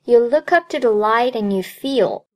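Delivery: "look up to" and "light and" joined up; teacher's demonstration with "light and" as "lightened"; linked demo reading. Shown as a demonstration. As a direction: model the line with "look up" linked, "up to" without a popped p. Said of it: "所以前半句再来一遍".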